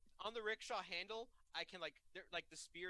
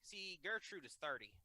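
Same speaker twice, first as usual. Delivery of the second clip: put-on southern accent; 4 dB louder than usual. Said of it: "southern accent is the only accent that I can do".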